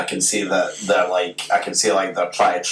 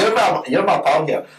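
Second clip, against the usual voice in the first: pleading; 9 semitones higher than usual. Retold or imitated. Retold plea to prefect.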